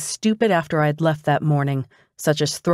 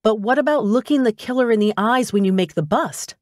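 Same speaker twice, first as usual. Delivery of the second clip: higher, keen pleading question; eager; 5 semitones higher than usual. Acted.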